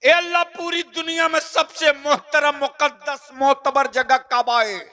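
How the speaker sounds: high, loud desperate plea; pleading cry. Acted. A sinner crying out to God asking where to come. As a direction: call out to God for an answer.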